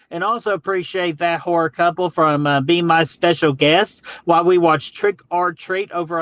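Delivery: excited. Real, not acted. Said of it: "Sorry, I'm so excited with energy".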